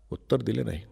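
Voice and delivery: whispered narration. A narrator's reading. Narrating his silence.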